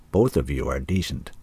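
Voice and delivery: positive. A narrator's reading. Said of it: "the old man said positively".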